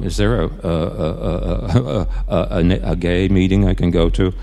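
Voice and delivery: lightly voiced little boy, stammering on "a"; slightly small, halting boyish voice; little boy's voice. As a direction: stammer hesitantly, a hint of a timid little boy. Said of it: "in this kind of little boy's voice".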